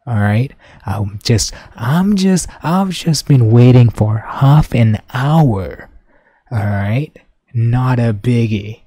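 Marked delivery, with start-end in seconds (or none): 1.7-5.9 raised, slow, frustrated complaint; drawn-out fed-up rant; exasperated outburst. Retold or imitated. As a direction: vent the half hour wait, louder and higher. Retold frustration with bus driver.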